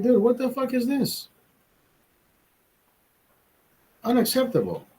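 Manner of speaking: high-pitched exasperated scold at his son; mock scolding. Dad scolding his son over a C, high mock outrage.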